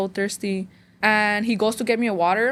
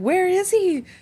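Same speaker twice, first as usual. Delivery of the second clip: mock screaming, high-pitched; 9 semitones higher than usual. Retelling a confrontation with a sister's friend: retelling a scream. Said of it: "I screamed at her".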